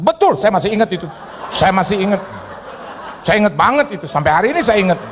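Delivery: chuckling while recalling it; laughing. Real, not acted. Preacher laughing as he retells the pastor story.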